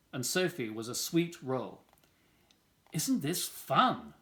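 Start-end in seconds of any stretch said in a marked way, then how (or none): 2.9-4.1 slow gloating. Acted. Wendell gloating.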